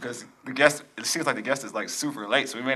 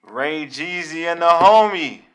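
slow, louder hype-man voice; rock voice; 4 semitones higher, 6 dB louder, slower than usual. Pretend. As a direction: boom it out like a wrestling promo. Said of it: "I keep doing this rock thing".

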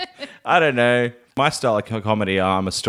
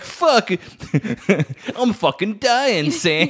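high strained cry of a dying man; 10 semitones higher, much slower than usual. Pretend. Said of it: "no one was like".

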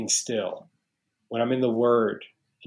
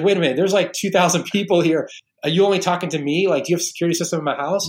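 amazed disbelief; 6 semitones higher, 4 dB louder, faster than usual. Retold or imitated. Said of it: "I was like".

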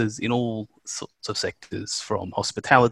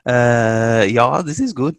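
laughing; 2 semitones higher, 4 dB louder than usual. Real, not acted. Laughing at his own joke.

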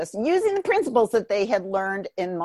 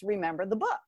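whisper; 2 semitones lower, 7 dB quieter, faster than usual. Retold or imitated. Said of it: "the whisper in my ear".

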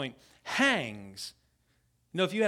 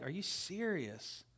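disbelief; 8 dB quieter, slower than usual. Retold or imitated. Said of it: "And I'm just like".

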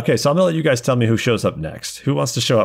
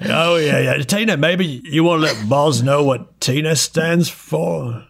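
Millie, frantically matchmaking; 4 semitones higher, slower than usual. Acted. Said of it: "frantically trying to connect these two".

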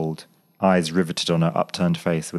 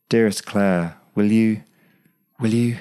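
voice catching; 5 semitones higher, 4 dB louder than usual. A narrator's reading. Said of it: "His voice stuck in his throat".

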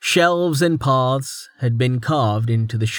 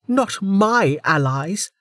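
icy and slow; a slow cold warning; 9 semitones higher, slower than usual. Acted. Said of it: "tone suddenly colder".

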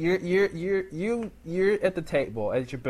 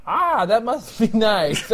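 slow, higher, badly held British accent; slipping British accent; 5 semitones higher, slower than usual. Waiter answering a millionaire, British accent slipping. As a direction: lose the British accent as laughter creeps in. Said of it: "couldn't stay in the accent there".

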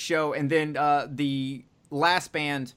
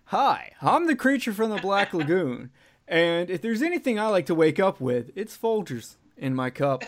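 commercial pitch voice; 4 semitones higher, 3 dB louder than usual. Pretend. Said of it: "like, pitch".

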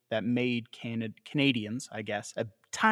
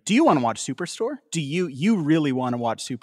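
pushy Netflix voice; 3 semitones higher, 5 dB louder, faster than usual. Retold or imitated. Imitating Netflix pushing Superstore at a viewer. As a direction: badger like an app pushing a show.

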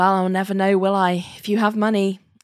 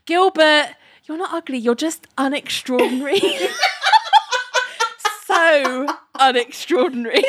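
mock Eleanor; 5 semitones higher than usual. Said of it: "she'd be like".

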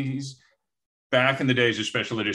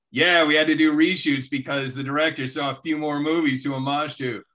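a hint of a snide writer, slightly raised; mock screenwriter; 3 semitones higher than usual. Screenwriter mocking the director on commentary, lightly voiced snide dig. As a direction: deliver the dig dry and sly.

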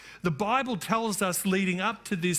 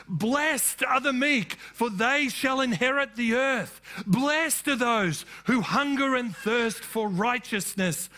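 proclaiming. Shown as a demonstration. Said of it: "how could the multitudes have heard him".

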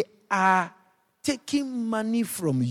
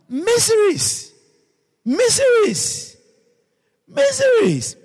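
MISERIES said slowly, higher and louder each time; building repetition; 4 dB louder, much slower than usual. Acted. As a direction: let Miseries climb with each repeat. Repeated word, rising each time.

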